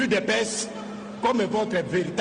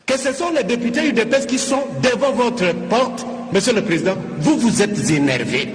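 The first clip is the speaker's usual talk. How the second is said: louder, heated rebuke of the speaker; irritated protest; 6 dB louder than usual. Real, not acted. Deputy scolding the Assembly president in the chamber, heated and louder. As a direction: raise the voice as irritation boils over. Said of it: "c'est avec un peu d'énervement".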